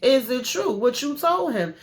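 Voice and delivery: rising, pushy mock demand; hammed-up nagging girlfriend; badgering friend. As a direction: press her harder with each question.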